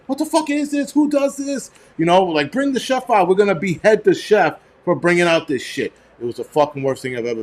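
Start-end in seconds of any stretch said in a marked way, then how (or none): 0.1-1.7 high-pitched yell, held back in volume; mock screaming. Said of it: "We all started screaming and yelling". 2.5-5.9 high, indignant retold outcry; mock yelling. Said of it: "We all started screaming and yelling".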